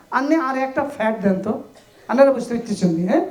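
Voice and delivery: quick Noakhali dialect talk. Acted. Teacher joking with class about "pad", Noakhali dialect. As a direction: put on a Noakhali accent, fast. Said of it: "এটা নোয়াখালী ভাষা".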